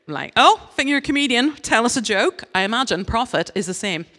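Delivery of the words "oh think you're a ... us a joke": higher and louder taunting heckler; mock heckler taunt. Heckler at a comedy gig, louder mocking taunt. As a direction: goad the comedian like a cocky punter in the crowd.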